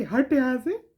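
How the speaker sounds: mild mock scolding; mock scolding mother. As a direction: shoo the kid away like a strict mother. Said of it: "हमको दो चमैता लगाती".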